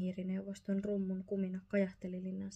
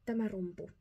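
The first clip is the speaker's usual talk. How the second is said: Lester's "Tämä rumpu." lifted a little and declared; "Tämä rumpu." held up like a trophy; proud father mouse; 3 dB louder than usual. A narrator's reading. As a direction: present the drum with pride. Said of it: "Lester sanoi".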